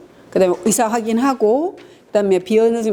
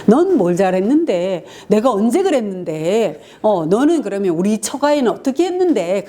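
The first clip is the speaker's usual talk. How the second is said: mock quarrel. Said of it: "계속 싸우는 거예요".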